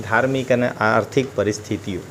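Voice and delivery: normal talking voice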